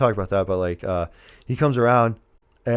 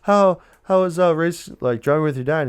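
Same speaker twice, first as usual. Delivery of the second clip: higher, lightly imitated mom; mother's voice; 6 semitones higher than usual. Mom asking son about driving with dad, lightly voiced mother. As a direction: ask like an interested mother, put on.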